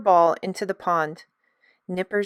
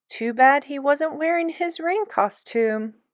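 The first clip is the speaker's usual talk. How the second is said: amused smile; 7 semitones higher than usual. A narrator's reading. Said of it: "With a smile".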